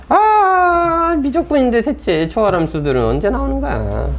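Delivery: long high "ah" into a complaint; exasperated wail. Real, not acted. Teacher wondering when transcendental functions appear, exasperated high wail. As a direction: wail it out high, then grumble.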